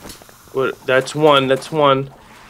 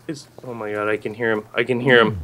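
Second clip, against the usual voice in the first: being chased; 12 semitones lower, 4 dB quieter, faster than usual. Real, not acted. Hiding while enemy nearby.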